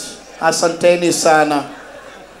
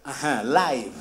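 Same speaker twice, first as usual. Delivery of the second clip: slow quiet prompting; 3 semitones lower, 10 dB quieter, slower than usual. Shown as a demonstration. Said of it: "you translate what I'm saying".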